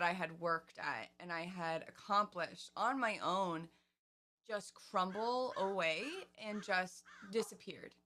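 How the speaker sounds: getting emotional. Real, not acted. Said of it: "sorry, I'm getting emotional".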